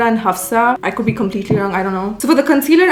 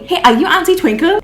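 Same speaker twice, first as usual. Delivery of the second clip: excited fan greeting; 7 semitones higher, 4 dB louder than usual. Retold or imitated. Fans recognize her, quoted.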